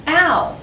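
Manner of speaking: "ow" set apart as a clear diphthong; ow sound. Shown as a demonstration. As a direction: model "ow" as in drought. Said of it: "can be pronounced like ow".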